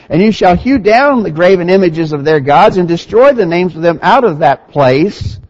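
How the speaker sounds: emphatic, declamatory scripture reading; lectura bíblica. A narrator's reading. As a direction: read the verses out firmly, phrase by phrase.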